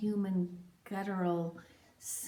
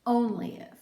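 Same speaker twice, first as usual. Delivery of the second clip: louder, higher insistent "only if"; fierce insistence; emphatic; 5 semitones higher, 8 dB louder than usual. Acted. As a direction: push the condition out hard. Bargaining with God, intense.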